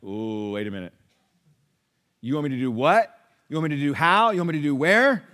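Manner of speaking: incredulous pushback, rising on each question; reluctant believer. Retold or imitated. Preacher mimicking a reluctant follower who balks at Jesus. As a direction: balk at every demand in disbelief. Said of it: "And you're like".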